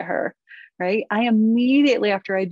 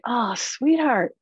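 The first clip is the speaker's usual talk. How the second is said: slow, drawn-out endearment; tender address; 3 semitones higher, slower than usual. Acted. Tender address to her daughter.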